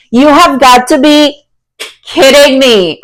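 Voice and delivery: can't believe how good this is; thrilled disbelief. Real, not acted. Reader amazed that the card confirms her reading, thrilled disbelief.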